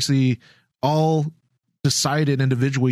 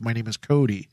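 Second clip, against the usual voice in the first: clone trooper voice; 4 semitones lower than usual. Retold or imitated. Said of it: "you hear their voices".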